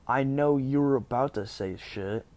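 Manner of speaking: retold angry accusation. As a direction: act out an irate accuser cutting in. Acted accusation in retold quarrel.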